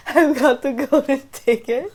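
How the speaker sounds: put-on the kid bursting in with news, cheering it out; mock excited Charlie. Charlie shouting to his family about the ticket, excited. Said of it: "He's like".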